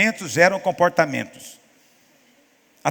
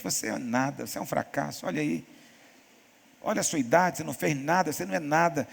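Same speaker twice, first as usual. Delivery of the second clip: softer, taunting voice of the devil; mock devil's taunt; 3 semitones lower, 6 dB quieter than usual. The devil taunting a driver, a soft, sneering voice. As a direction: sneer in his ear, quietly.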